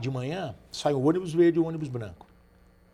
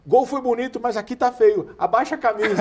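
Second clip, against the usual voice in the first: higher, laughing teasing voice; teasing quote; 7 semitones higher, 4 dB louder than usual. Retold or imitated. Teammate teasing the overweight scorer, laughing. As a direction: tease him while laughing. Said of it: "o Marcão falou assim".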